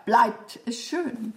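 BLEIBT set apart at the start; stress on BLEIBT. Shown as a demonstration. Actress copies her partner's retort, stress on BLEIBT. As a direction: lean on BLEIBT, then an easy ES SCHÖN. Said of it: "du machst bleibt".

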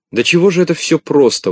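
eager, bright outburst; excited exclamation. Acted. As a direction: exclaim it with delight. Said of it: "воскликнул Шпунтик".

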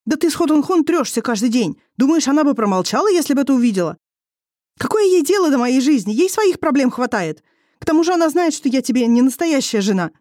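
defiant wife throwing it back at him; a young wife in a quarrel, voiced high and heated; young wife arguing. A narrator's reading.

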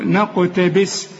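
نقتبس slow, with a released, echoing ق; bounced qaf. Shown as a demonstration. Teacher repeating the qalqalah rule, bounced ق in نقتبس. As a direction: bounce the ق of نقتبس after a light ن. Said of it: "طلقة للقاف".

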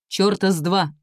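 usual speaking voice

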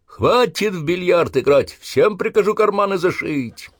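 high, loud, slow drill-sergeant roar; threatening bellow. Acted. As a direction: bark it at the recruits as a threat. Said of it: "прорал, грозясь".

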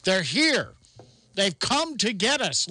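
high, hammed-up panic report; mock alarm. Mock alarm over camera flashes.

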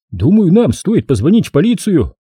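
high lisping suggestion; lisping whistling voice. Acted. Tommy speaks.

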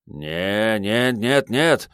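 rising string of panicked refusals; alarmed babbling. Acted. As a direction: babble in disbelief, climbing in pitch. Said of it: "внезапно забормотал Рю".

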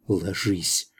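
soft, hushed urging; quiet narrated whisper. A narrator's reading. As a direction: whisper it into someone's ear. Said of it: "шепнула в ухо Лана".

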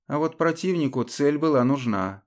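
plain reading voice

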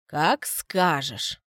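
slow low faint smirk. Acted. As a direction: say it with a barely hidden smirk. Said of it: "усмехается ведьма чуть заметно".

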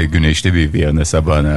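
held low, deepened voice; dropping voice deep. Acted. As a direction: keep the voice pushed down deep. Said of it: "hazır sesin kalınken".

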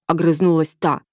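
plain reading voice

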